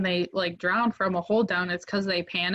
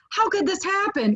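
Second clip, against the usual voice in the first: exasperated friend; 11 semitones higher than usual. Retold or imitated. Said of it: "he's like".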